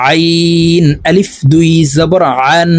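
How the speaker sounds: আইন and আন squeezed from mid-throat, not as hamza; pressed Ayn. Shown as a demonstration. Teacher shows learners to repeat, pressed throaty আইন and আন. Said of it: "দেখুন আমি কিভাবে আইনের উচ্চারণ করতেছি".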